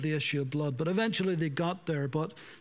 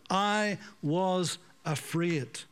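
slow, drawn out; much slower than usual. Shown as a demonstration. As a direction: stretch every word of I was afraid slowly. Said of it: "The first words he said after he sinned was".

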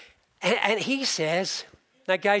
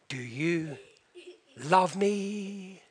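soft, lowered voice, hesitant; tender question; 7 dB quieter, much slower than usual. Retold or imitated. Husband repeating his question to his wife, soft. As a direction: ask it quietly, holding back.

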